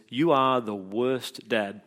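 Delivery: put-on slow, half-laughing kid accusation; child's accusation. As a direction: drag it out, laughing at the line. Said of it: "looks at you and says".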